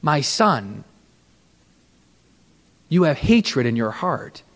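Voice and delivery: low, soft, grave pronouncement; hushed, sorrowful gentle rebuke; voice of Jesus. Retold or imitated. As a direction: speak quietly down, with long pauses. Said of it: "And he said".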